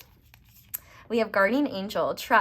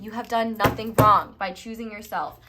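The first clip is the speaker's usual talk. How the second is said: louder, firm, falling on "wrong"; emphatic repeat; 7 dB louder than usual. Shown as a demonstration. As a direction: drive it home with conviction. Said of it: "Let me repeat that".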